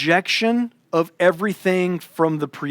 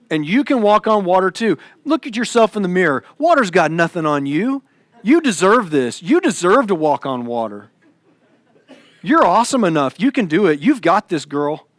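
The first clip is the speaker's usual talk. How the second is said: mock motivational coach. Mocking self-help pep talk.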